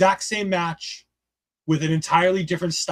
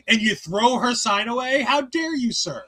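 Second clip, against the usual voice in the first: high-pitched indignant scolding, dropping on "sir"; mock indignation; 5 semitones higher than usual. Mock outrage at wrestler.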